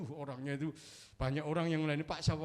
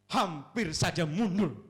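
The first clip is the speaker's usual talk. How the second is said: emphatic slow; 5 semitones higher, 10 dB louder, slower than usual. Real, not acted. Emphatic sermon point.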